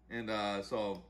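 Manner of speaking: ordinary talk, nothing marked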